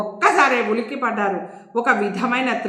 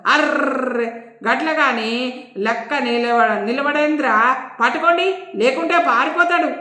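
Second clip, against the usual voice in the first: irritated. Acted. Inspector scolding hesitant constables, irritated. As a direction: lose patience with the dithering constables. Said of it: "irritate అవుతూ".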